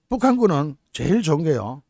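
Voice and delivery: ordinary talk, nothing marked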